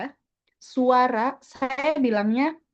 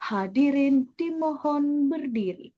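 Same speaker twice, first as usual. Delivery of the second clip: slow, drawn-out ceremonial request to stand; measured formal announcement, really slow; very slow hard-formal; 3 semitones higher, slower than usual. Shown as a demonstration. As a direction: stretch each word solemnly, like a formal MC. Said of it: "dia benar-benar lambat".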